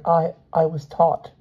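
high, halting schoolboy; flustered child confessing in a high voice; nervous stammer. A narrator's reading. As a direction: stumble on the first word, slowly. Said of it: "he stammered".

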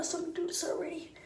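fast unvoiced whisper. Real, not acted. Whispering an aside to her viewers. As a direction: rush it out in a whisper.

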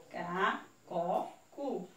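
measured read-along syllables; syllable drill. Shown as a demonstration. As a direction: separate syllables with small gaps. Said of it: "Primeiro a gente vai ler".

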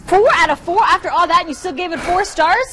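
can't-believe-it host reaction; incredulous. Real, not acted. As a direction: challenge the verdict in astonishment. Host challenges critic's top rating.

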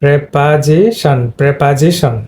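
preposition as prep-a-zi-shan; correct preposition. Shown as a demonstration. Teacher repeating correct preposition for students, short prep opening. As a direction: sound out preposition, slowly then joined. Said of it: "তাহলে কি হবে?".

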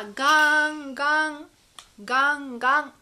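loud, ringing, drawn-out clangs; bell imitation. Shown as a demonstration. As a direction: toll it like a big bell. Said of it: "agora um sino tocando".

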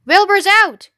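excited news. A narrator's reading. Animals spreading news of the escape, excited. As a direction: call out the big news. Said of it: "they heard the goose hollering".

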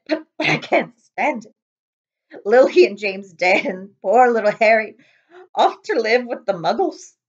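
grief spilling over; sobbing Hagrid. Acted. Hagrid grieving Lily and James, loud sobs.

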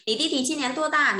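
"Nǐ ti ti chi nian duo da?" sung out high with a falling "da"; emphatic model question. Shown as a demonstration. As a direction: lift the whole question up as a teacher's model. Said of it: "repeated model question".

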